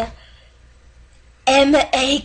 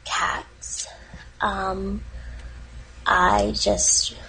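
getting emotional; 5 semitones lower than usual. Acted. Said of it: "I'm getting emotional".

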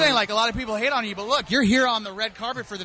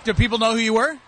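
Krusty the Clown; 4 dB louder, faster than usual. Retold or imitated. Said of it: "It's my Krusty the Clown impression".

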